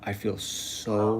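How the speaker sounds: slow, dreamy retelling of total ease. Retold or imitated. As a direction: draw the words out slowly, savoring them. Retold total relaxation while dying.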